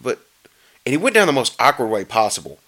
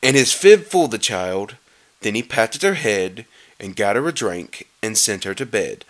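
measured, settling rhyming read; storybook narration. A narrator's reading. Reader telling how child went to bed, storybook narration. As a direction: read the verse evenly, easing down. Reads Grinch story aloud.

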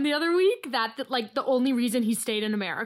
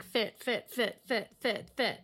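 softer, evenly repeated single word; mock chorus of approval; 2 semitones lower, 6 dB quieter, slower than usual. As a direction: echo a smitten group, each word separate. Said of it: "All the girls are like".

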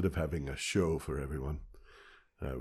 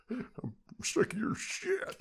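laughing; 4 dB quieter, slower than usual. Real, not acted. Laughing at cohost's teasing.

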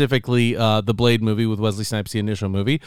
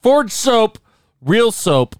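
yelling; 5 semitones higher, much slower than usual. Acted. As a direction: bark the tagline at the listener. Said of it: "Stop yelling at me".

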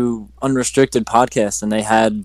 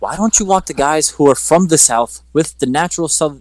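higher-pitched retold objection; incredulous questioning; 5 semitones higher than usual. Retelling wrestlers questioning the accent demand, incredulous. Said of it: "they were just questioning it".

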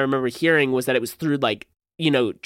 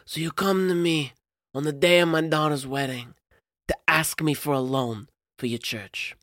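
put-on lightly done Godfather-style Italian American accent; a hint of Italian American mob boss, unhurried; 3 dB quieter than usual. Host mimics Cosimo greeting Pope in Italian American accent. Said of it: "my Italian American accent".

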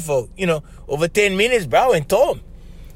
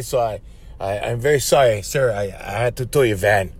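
slightly lowered, halting apology; mildly nervous guard explaining himself; hesitant, polite and deferential; apologetic; 4 semitones lower than usual. Retold or imitated. Nervous guard apologises to van owner.

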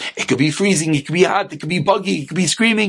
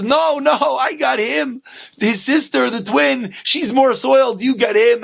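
wife's higher-pitched protest; bickering spouse, pitched up; acted quarrel; 6 semitones higher than usual. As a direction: refuse and argue back, lightly acted. Wife quarrelling over the twins.

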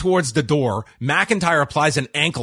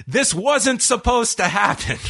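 high, slow mock wail; retold yell; 8 semitones higher than usual. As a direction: imitate a beaten wrestler's protest, pitched up. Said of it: "he yells on the floor".

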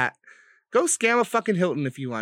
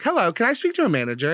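Karen voice; faster than usual. Retold or imitated. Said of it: "I'm such a fucking Karen".

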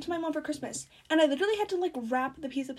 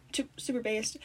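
whisper; 2 semitones lower, 6 dB quieter than usual. Real, not acted. Aside whispered after item.

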